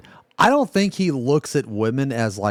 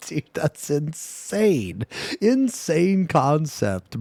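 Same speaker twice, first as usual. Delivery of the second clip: slow, higher-pitched disbelief; amazed; 5 semitones higher, slower than usual. Real, not acted. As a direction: draw out the words in real amazement. Marveling at the phrase just heard.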